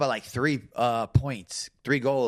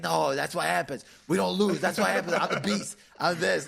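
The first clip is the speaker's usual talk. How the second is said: higher-pitched mock bragging; retold trash talk; 4 semitones higher than usual. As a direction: imitate a winner's boasting, lightly. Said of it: "like, talking trash".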